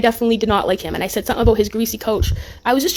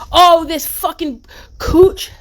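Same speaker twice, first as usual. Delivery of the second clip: exasperated disbelief; 5 semitones higher, 4 dB louder, much slower than usual. Real, not acted. Outraged on spotting Cooch.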